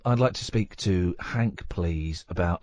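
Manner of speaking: put-on posh British phone manner. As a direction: ask politely in a very posh voice. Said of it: "I put on a very posh voice".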